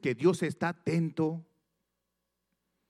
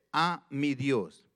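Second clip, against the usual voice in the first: "A mi Dios" drawn out slowly; stress on mi; much slower than usual. Shown as a demonstration. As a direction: linger on "A mi Dios". ("A mi Dios" lento y marcado)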